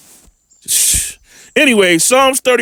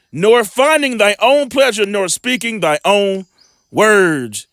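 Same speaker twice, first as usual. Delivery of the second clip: measured, slow Bible reading; preacher reading scripture aloud; slower than usual. Acted. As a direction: read the verse slowly like a preacher. Scripture read aloud in sermon.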